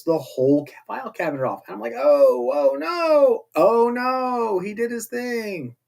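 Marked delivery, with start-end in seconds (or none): 2.0-5.7 mock alarm, pitch jumping much higher on "oh no". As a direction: gasp as if the cabinet just hit the floor. Reacting to Luther wrecking cabinet.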